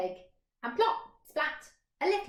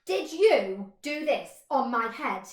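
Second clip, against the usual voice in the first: louder, slower question; accusing question; 6 dB louder than usual. Acted. Mole questioning the hare, louder. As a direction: press it on you.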